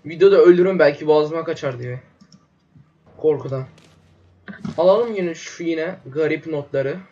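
talking while chewing gum. Real, not acted. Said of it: "Ağzıma da sakız attım".

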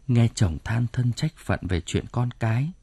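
ordinary delivery

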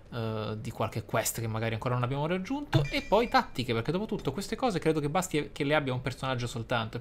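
ordinary talk, nothing marked

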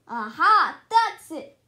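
the idea strikes; eureka. A narrator's reading. Sudden idea.

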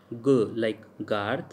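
"guard" starting on a hard g. Shown as a demonstration. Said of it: "sounds like g".

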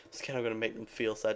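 laughing at own words. Real, not acted. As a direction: say it through a laugh. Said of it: "Did I really just say".

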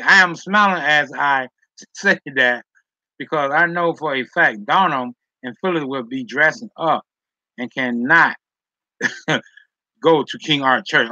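can't stop laughing while reading. Real, not acted. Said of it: "Now I'm laughing".

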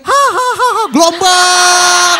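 high mock laugh into a drawn-out shout; cackle, then holler the word long and high; hammed-up gleeful yell, stretched out; whooping mother. Imitates mother shouting while out.

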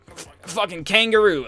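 blurted out high through laughter; retold, laughing. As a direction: crack up while retelling your silly answer. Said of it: "I started laughing".

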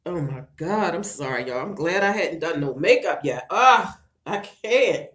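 real tears, fighting them back; tearful. Real, not acted. Widow overcome while remembering her kids losing their dad, tearful. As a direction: apologize through tears, catching yourself. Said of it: "up on this piece crying".

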